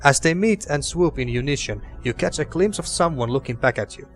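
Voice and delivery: calm storybook narration; story narration. Acted. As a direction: read it like a fantasy narrator. Reads game narration aloud.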